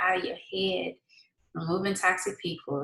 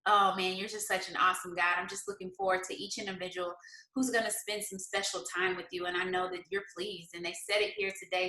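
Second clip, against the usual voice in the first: softer, earnest spoken prayer; 3 dB quieter than usual. Acted. Host praying over her fasting viewers, soft earnest prayer. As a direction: pray over the viewers, steady and sincere.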